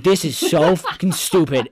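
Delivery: hammed-up annoyance; mock angry rant. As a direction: complain at the screen, fed up. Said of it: "I was like".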